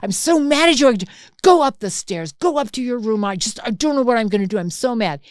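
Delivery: exasperated telling-off, easing toward the end; retold fury. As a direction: act out a flustered, furious parent, stumbling over threats. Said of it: "so I'm just furious".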